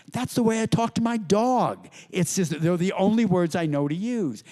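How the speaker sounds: tossing off the line as Buckley would; Buckley impression. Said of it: "Buckley said".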